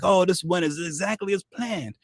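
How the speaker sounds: mock smug pretending. Opponents pretending the disaster was planned, high mock smugness. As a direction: play it off as all planned, smug. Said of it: "they're pretending like".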